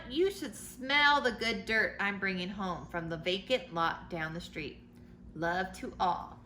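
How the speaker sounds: storybook letter read aloud; reading to children. A narrator's reading. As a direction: read it like a bedtime picture book.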